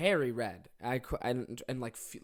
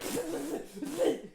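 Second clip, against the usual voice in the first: imitated laugh; 12 semitones higher, 5 dB quieter than usual. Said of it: "She went".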